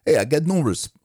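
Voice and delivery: trying out a comedian's catchphrase; short, restarted stabs at a New York comic; warming up a New York comedian impression; Rodney Dangerfield. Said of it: "let's do a couple of Rodney".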